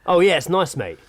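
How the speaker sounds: imitating a chatty bloke on his mobile, mate on every line; overheard bloke on the phone. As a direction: mimic a man phoning a friend, tacking mate onto everything. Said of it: "he's obviously listening to one side of a conversation on the phone".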